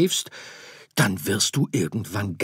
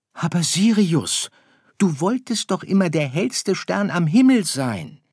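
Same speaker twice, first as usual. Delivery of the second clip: erschrocken; 13 semitones higher, 12 dB louder than usual. Acted. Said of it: "sagte seine Mutter erschrocken".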